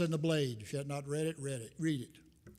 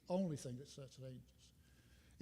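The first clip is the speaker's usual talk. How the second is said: softer and slower, letting "Only thing that sustains us" sink in; soft slow echo; 3 semitones lower, 8 dB quieter, slower than usual. Real, not acted. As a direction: repeat it softly to yourself, slowly. Repeated line said softer, slower.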